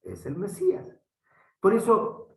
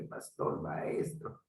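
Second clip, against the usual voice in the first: whispered, softer words to a fellow pastor; whispered appeal; 8 dB quieter, slower than usual. Real, not acted. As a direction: drop to a whisper to reach the listener personally.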